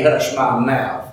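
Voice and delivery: mocking repeat. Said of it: "Imagine her telling me".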